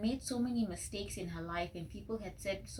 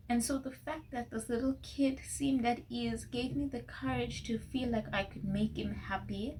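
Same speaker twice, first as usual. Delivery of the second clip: choked up; 4 semitones higher than usual. Real, not acted. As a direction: voice pitched higher and strained after a laugh, close to tears. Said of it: "I'm really gonna cry".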